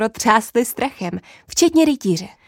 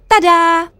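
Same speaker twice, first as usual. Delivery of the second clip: louder and higher, a triumphant tada; excited exclamation; 7 semitones higher, 6 dB louder than usual. Acted. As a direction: present it like a magic trick. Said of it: "zvolala jsem nadšeně".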